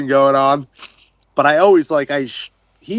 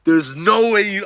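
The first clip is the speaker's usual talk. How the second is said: high-pitched incredulous protest; retold disbelief; 4 semitones higher than usual. Diver disputing his friend's claim to the find, incredulous. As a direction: refuse to believe it, voice pitched up.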